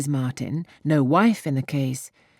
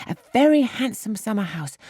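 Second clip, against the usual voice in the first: put-on "very" lifted higher with girlish delight; eager repeat; 7 semitones higher than usual. A narrator's reading. Harriet repeating the summer house to Emma, higher and delighted. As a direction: gush over the word "very". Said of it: "speak with so much exultation".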